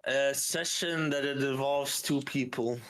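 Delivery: slow, cryptic mystic delivery; drawn-out mystical prophecy; fortune teller voice. Pretend. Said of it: "Stop talking like a fortune teller".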